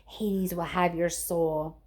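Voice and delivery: slow, drawn-out monster threat; lightly voiced hissing fury; slow, grim threat from the monster; menacing promise. A narrator's reading. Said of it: "she promised".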